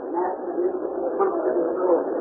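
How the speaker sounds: rising, pleading prayer to the Lord; preacher praying aloud for healing; fervent healing prayer. Acted. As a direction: pray over the sick child with growing fervor.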